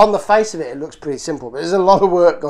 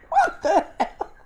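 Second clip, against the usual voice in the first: incredulous; 13 semitones higher, 6 dB quieter than usual. Real, not acted. Sees picture of guy with duck.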